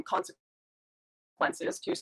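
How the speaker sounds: broken-up call audio cutting out; words dropping out over a bad line; choppy audio. Real, not acted. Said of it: "The audio is getting a bit choppy there too".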